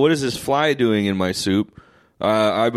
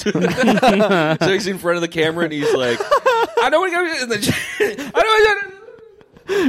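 passing by doppler; 13 semitones higher than usual. Retold or imitated. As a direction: voice rising as it rushes past. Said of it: "It's Doppler effect".

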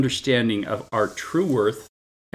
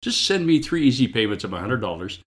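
infomercial voice; faster than usual. Pretend. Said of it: "Do I sound like an infomercial".

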